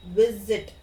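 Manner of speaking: visit with VIS hit firmly and loud, second syllable light; teacher stresses the first syllable of visit, VIS-it. Shown as a demonstration. Teacher models visit for students, stress on VIS. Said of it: "Vis, I stress on the first syllable".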